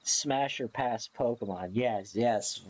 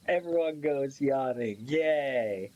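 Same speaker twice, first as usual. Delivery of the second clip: laughing. Real, not acted. Laughing about contagious yawns.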